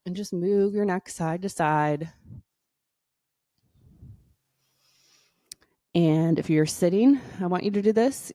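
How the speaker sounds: guided meditation read at an unhurried, gentle pace; yoga teacher guiding a breathing routine, soothing. Acted. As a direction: ease the listener into calm breathing. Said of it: "I'll put on my soothing voice".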